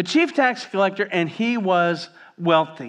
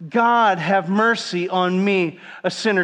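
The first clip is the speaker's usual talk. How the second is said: slow, louder call-and-response prayer; leading the congregation; 2 semitones higher, 3 dB louder, slower than usual. Shown as a demonstration. Preacher leads the church in saying the prayer aloud. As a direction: lead the room through it, each word spaced out. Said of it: "would you say that with me?".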